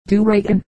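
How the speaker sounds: Duragan said with a slight Irish brogue, stress on the middle syllable "ra"; Duragan, doo-RAH-gan, a light Irish lilt on the middle syllable. Shown as a demonstration. Reader showing the old Irish name, Duragan said with light brogue, middle syllable stressed. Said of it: "the whole being pronounced, as with a slight brogue".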